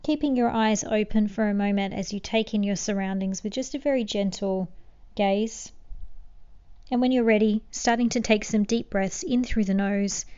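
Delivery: calm meditation guide with long pauses; unhurried, settling guidance, phrase by phrase; guided meditation. Acted. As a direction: gently lead them into stillness.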